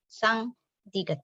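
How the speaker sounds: sang diget said as a Korean doubled consonant; Korean consonant reading. Shown as a demonstration. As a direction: say sang diget tense, like a Korean letter name. (sang diget dengan bunyi konsonan Korea)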